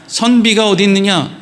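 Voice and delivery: even, formal reading of 선비가 어디 있느냐; composed verse recital with a falling close; scripture reading. Acted. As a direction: read it as a written verse, evenly. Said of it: "그리고 또 이어서는 이렇게 돼 있죠".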